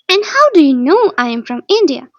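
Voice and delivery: loud, mildly resentful question; a little resentful. A narrator's reading. Bond questioning Holmes's deduction, a little resentful. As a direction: challenge him with some resentment. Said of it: "I asked a little resentfully".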